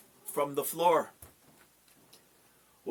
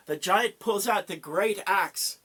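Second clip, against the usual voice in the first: dramatic build; 6 semitones higher, 5 dB louder than usual. A narrator's reading. Narrating the raised axe.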